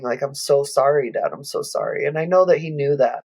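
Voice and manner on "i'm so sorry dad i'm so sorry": imitating a sob, fading to a breathy whisper; a softened echo of crying out to Dad; retold wailing apology. A daughter re-enacting her grief for her dad, mild sob. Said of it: "wailing, crying".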